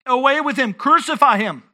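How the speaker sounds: preacher imitating an insistent mob; mild mock crowd shout; crowd crying out. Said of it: "they cried out".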